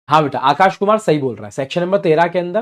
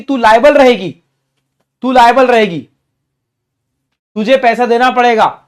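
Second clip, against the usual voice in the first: stern law addressing firm; 5 semitones higher, 4 dB louder than usual. Acted. Law telling the firm it's liable.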